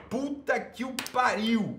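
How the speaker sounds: milk the outrage; theatrical outrage. Real, not acted. Host outraged at a viewer's comment, hammed-up exasperation. Repeats outrage, louder manner.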